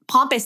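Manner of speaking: "pompous" as POM-pus, open ah; ah-vowel pompous. Shown as a demonstration. Host contrasting the two words, "pompous" with open ah. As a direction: say "pompous" with the ah of "father". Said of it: "I say pompous because it".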